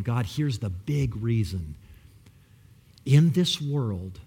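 whispered, breathless plea; hushed prayer. Acted. Preacher whispers his prayer to God, hushed.

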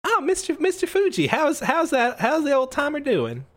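high-pitched, pleasantly surprised scientist; light up at an old friend's name; eager, stumbling, pitched well up; delighted professor. Acted.

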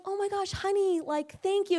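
high, gushing imitation of a grateful wife; delighted thanks. Wife thanking husband for a surprise bouquet, delighted.

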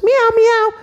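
high, loud cutesy meowing; kitty meows. Acted. Little girl meowing like a kitty, high and loud. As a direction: meow like a little cat.

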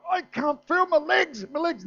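high, strained cry of alarm; panicked cry. Acted. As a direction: yelp it in mock panic, pitch way up. Acting his panic under the table.

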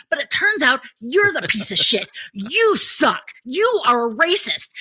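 loud, high furious tirade; angry rant. Retold or imitated. Ranting at the racist man, loud high tirade. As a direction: tear into them without letting up. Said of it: "And I said".

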